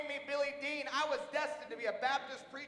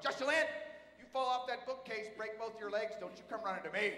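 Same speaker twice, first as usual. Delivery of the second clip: mock parent warning, calling her name out; half-laughing parent lecture; parent scolding; 3 semitones lower than usual. Dad scolding daughter on the bookcase, mock stern. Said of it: "parent stuff starts coming out of my mouth".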